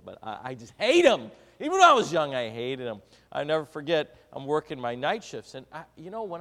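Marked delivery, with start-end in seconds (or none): 0.0-3.0 mock complaint. Mock older listener complaining.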